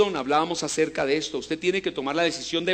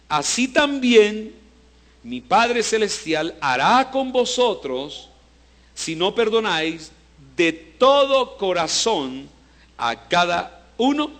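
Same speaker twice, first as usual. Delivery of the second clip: slow, weighty reading; solemn reading; slower than usual. Acted. Preacher reads Jesus' warning to the church, slow and solemn. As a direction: read each phrase slowly as a solemn warning.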